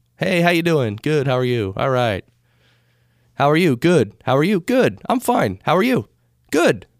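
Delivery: plain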